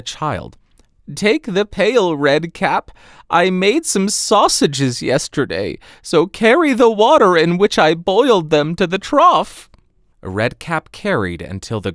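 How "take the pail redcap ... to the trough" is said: put-on an old woman giving orders; high grandmother voice, growing louder; grandmother's voice. Grandmother instructs Redcap.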